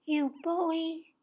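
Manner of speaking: high, loud stung outcry; exclaiming. A narrator's reading. Bear stung by Venom, shrieking high and loud. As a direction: shout it out as the sting lands. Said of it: "as it exclaims".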